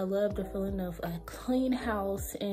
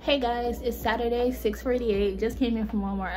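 breathless after carrying groceries; panting between words; out of breath; 3 semitones higher, 5 dB louder than usual. Real, not acted. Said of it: "I'm out of breath".

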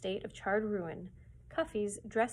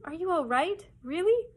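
anxious cry; 9 semitones higher, 7 dB louder than usual. A narrator's reading. Frightened girl clinging to father.

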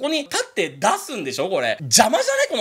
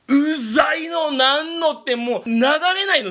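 loud, higher exasperated rant; fed-up rant; 7 semitones higher, 3 dB louder, slower than usual. Real, not acted. Complaining to viewers about the toilet, exasperated rant. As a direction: vent your annoyance at the toilet.

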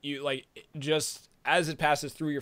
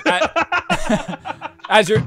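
high laughing, barely getting words out; laughing fit; 10 dB louder, much slower than usual. Real, not acted. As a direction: try to talk through giggles. GM laughing too hard to narrate.

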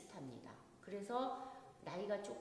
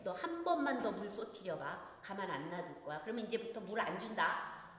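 threatening scold; 4 dB louder than usual. Retold or imitated. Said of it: "막 이렇게".

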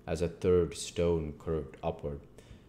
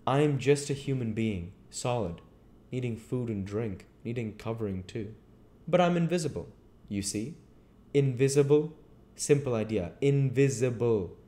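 raised, emphatic voice of the unseen man; insistent invisible man; 6 semitones higher, 4 dB louder than usual. Acted. Invisible man explains himself to the tramp, insistent. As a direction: explain insistently, pitched above the narration.

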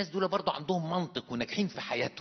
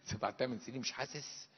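incredulous echo through a laugh; laughing disbelief; 6 dB quieter than usual. Retold or imitated. Preacher mocking the believer's numb years, laughing in disbelief. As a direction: repeat it as if you can't believe it.

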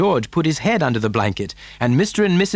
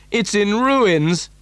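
slow, higher lament; dismayed cry; 9 semitones higher, slower than usual. A narrator's reading. Father seeing his house wrecked, dismayed. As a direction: wail it mildly, stretching the words. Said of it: "cried poor Mister Bucket".

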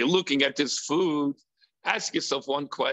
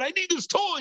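put-on child demanding; 12 semitones higher, faster than usual.

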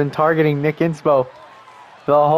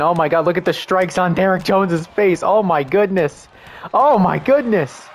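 excited; 3 semitones higher than usual. Real, not acted. Excited reaction to strikes.

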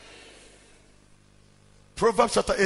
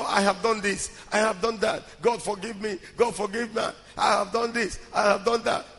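mock complaining prayer; 4 dB quieter than usual. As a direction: recite sins like a weary routine. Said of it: "Every day is complaining".

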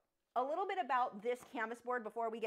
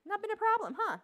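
pet talk; 12 semitones higher, 9 dB louder than usual. Real, not acted. Pet talk to her dogs.

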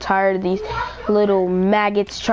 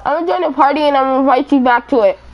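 loud rushed; 3 semitones higher, 5 dB louder, much faster than usual. Real, not acted. Rushing to set up party.

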